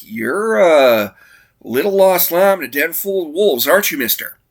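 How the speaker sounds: high, chipper golly-gee voice; bright aw-shucks kid; wholesome 1950s kid. Retold or imitated. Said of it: "and again, it's like".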